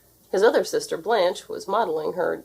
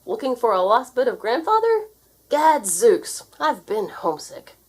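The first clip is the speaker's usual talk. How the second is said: put-on old sailor uncle; 5 semitones higher, 4 dB louder than usual. A narrator's reading. Seafaring uncle voiced.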